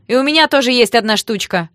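loud, high, furious retort; piercing yell. A narrator's reading. Sister answers the thug's come-on, yelling piercingly. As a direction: throw it back at them, yelling. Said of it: "раздался пронзительный вопль".

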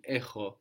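"echo" with a hard Greek ch, a throaty h. Shown as a demonstration. Teacher contrasting Greek sounds, hard ch in "echo". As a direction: harden the ch in "echo" before the o. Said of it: "hard when it has another vowel".

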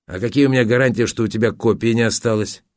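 hurried, mildly whining question; plaintive bleat. Acted. Photographer asking for guarantees, mildly plaintive bleat. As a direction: bleat it a little, quick and pitiful. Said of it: "жалобно проблеял фотограф".

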